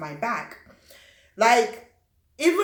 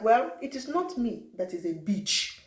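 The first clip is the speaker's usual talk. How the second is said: put-on thick African accent. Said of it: "my accent was super thick".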